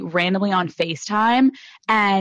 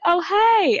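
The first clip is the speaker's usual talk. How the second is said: retold reply; 9 semitones higher than usual. Voicing the guest's reply.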